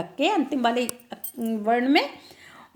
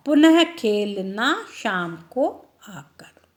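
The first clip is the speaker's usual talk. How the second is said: whispered line; slower than usual. Shown as a demonstration. Teacher whispering the poem's final line to children. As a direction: drop to a whisper for the last line. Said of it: "poem line ends whispered".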